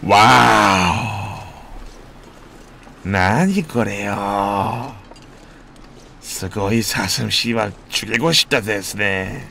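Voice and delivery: slow, low mock Japanese-style voice; put-on anime voice. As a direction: drawl in a silly anime parody. Joking put-on voice, fake Japanese. (느릿한 일본 애니 말투 흉내)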